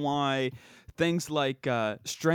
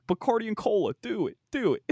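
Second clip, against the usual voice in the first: Owen Wilson; 5 semitones higher than usual. Acted. Showing the co-host a movie character's line, high-voiced impression. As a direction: pitch it up for an actor's catchphrase. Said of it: "he's got that high voice".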